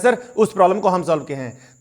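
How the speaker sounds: "हम" pressed as the student claims credit; stress on हम. Shown as a demonstration. Student claiming credit from sir, stress on "हम". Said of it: "हम वहां पर stress देके बोल रहे हैं".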